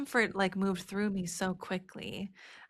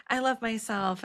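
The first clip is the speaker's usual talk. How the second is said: breezy, higher, throwaway I love myself; shallow self-love; 3 semitones higher than usual. Retold or imitated. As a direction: say it lightly, like a slogan. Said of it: "way more surface level".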